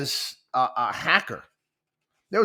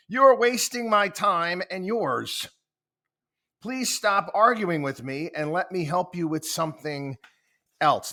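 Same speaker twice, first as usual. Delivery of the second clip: irritated scolding; 5 semitones higher than usual. Retold or imitated. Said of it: "Bing just starts getting ticked off".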